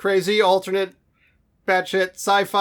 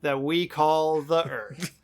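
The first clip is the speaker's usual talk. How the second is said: grand dramatic narration; slower than usual. Acted. Grandiose flourish ending show intro.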